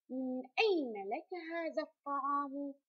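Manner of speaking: teacher's model question, stressing أين. Shown as a demonstration. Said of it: "اقرأ الجملة مستفهما". (نبرة استفهام مع إبراز أين)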